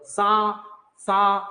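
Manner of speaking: सा drawn out slowly as a practice sound; nasal demo. Shown as a demonstration. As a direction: hold सा for the class to copy. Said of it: "बोलो सा".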